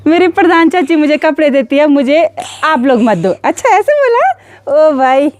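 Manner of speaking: amused surprise. Real, not acted.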